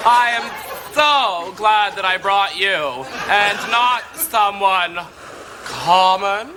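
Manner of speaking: breathless laughter through the words; laughing. Acted. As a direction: talk while still laughing. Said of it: "let me catch my breath".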